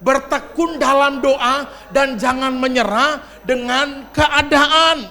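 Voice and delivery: loud, slow declaration read together; preaching at full force. Real, not acted. Preacher reading the point aloud with the congregation, loud and slow. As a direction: proclaim it slowly with full force. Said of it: "baca sama-sama".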